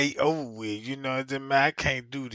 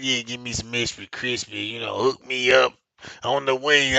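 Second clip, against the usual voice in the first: flirty customer voice; 5 semitones lower, 4 dB louder than usual. Retold or imitated. Flirting woman at the chicken counter, lower and loud. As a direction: tease the order out like a flirt. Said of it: "talking about".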